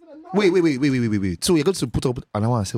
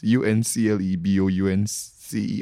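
spelling it out; 3 semitones lower, slower than usual. Real, not acted. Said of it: "What am I spelling this for".

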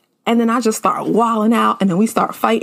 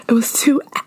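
hushed, secretive whisper; 2 semitones higher than usual. Retold or imitated. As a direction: whisper it so nobody hears. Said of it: "So I had to whisper the shit".

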